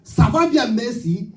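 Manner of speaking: mockery of tongues as one learned phrase; mock tongues in French. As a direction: chant rote French like fake tongues. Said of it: "Speak French".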